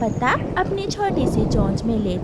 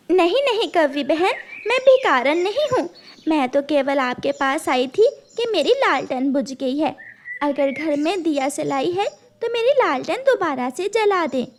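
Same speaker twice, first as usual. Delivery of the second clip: higher, pleading bird voice; pleading mother bird; 4 semitones higher than usual. Acted. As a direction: beg politely for a match.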